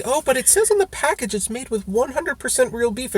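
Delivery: parroting the package claim with mock innocence; mocking quote. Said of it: "some people, like, say".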